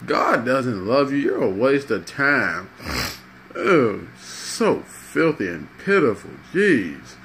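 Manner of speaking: mock-disgusted, judgmental putdown; disgusted scorn. Christian tells crackhead "don't talk to me", scornful and disgusted. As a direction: recoil in disgust with swooping pitch.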